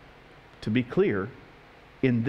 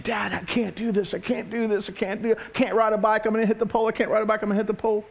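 mock tearful wail, higher-pitched; crying child; 5 semitones higher than usual. Crying daughter pedaling toward the pole, mock tearful pleading. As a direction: imitate a little girl whining through tears, over and over. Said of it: "now she's crying".

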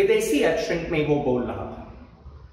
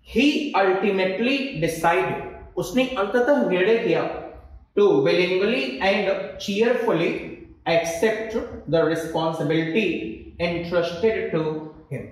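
slow dictation; much slower than usual. Shown as a demonstration. Reads example sentence slowly.

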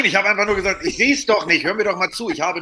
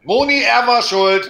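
lachend rufen; 7 semitones higher, 4 dB louder, much slower than usual. Real, not acted. Calls to wife, laughing.

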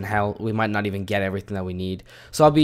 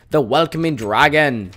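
lightly put-on innkeeper voice; put-on tavern voice; 2 semitones higher, 4 dB louder than usual. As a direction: read it as a mock tavern host. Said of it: "I don't know why I'm making this voice".

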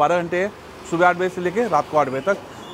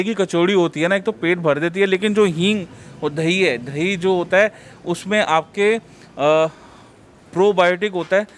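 muffled by cloth covering; speaking behind mask; through a face mask. Real, not acted. Seen 2: Host in green shirt wears patterned cloth mask over mouth throughout.

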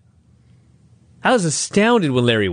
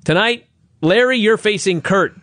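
mock Russo; 6 semitones higher than usual. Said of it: "Russo says".

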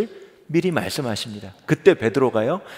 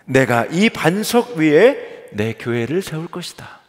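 slow solemn declaration; 3 semitones higher, 4 dB louder, slower than usual. Acted. Reading Jesus' declaration.

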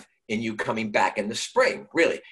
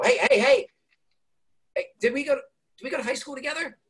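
much higher, excited stranger calling out; eager fan at the airport; 11 semitones higher, faster than usual. Retold or imitated. Stranger in the airport stops the actor, high and excited. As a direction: play an overeager stranger who half-recognizes you. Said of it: "someone would go".

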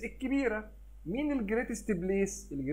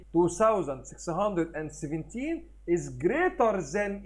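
very slow, word by word; slow read aloud; much slower than usual. Shown as a demonstration. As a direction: spell out the comparison for the class. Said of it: "هنقول ايه".

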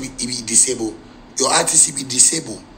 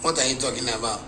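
soft, low mock of a vexed old man; lightly voiced grumpy old man brushing off the question; 3 semitones lower, 7 dB quieter than usual. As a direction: whine it like an irritated old man. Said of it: "then he vex. Say".

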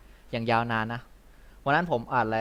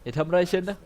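pleading woman's cry; 8 semitones higher, 5 dB louder than usual. Acted. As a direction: plead like a frightened woman in an old western. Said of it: "วิ่งออกมาบอก".

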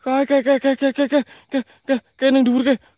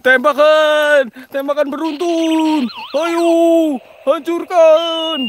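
battle cry; 3 semitones higher, slower than usual. Acted. Battle cry while shooting.

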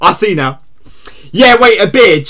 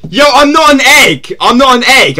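mock indignant denial; 5 semitones higher than usual. Real, not acted. Denies being called an egg.

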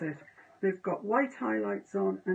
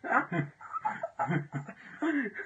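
real laughter; 6 semitones higher than usual. Real, not acted. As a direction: repeat it while cracking up. Joking repeat while bursting into laughter.

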